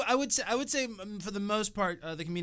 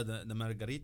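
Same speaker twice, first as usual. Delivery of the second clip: put-on, Russian-sounding accent, lower; accent on request; 7 semitones lower, 5 dB quieter than usual. Shown as a demonstration. Comic asked to copy the accent, sounding Russian. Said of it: "that sounded Russian".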